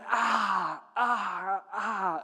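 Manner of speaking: drawn-out groaning sighs; massage groans. Acted. Man getting a massage, groaning. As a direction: groan as someone works on you.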